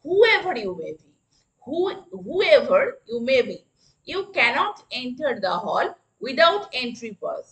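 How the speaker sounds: very slow, word by word; slow classroom dictation. Shown as a demonstration. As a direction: spell it out slowly for the class. Teacher models a sentence.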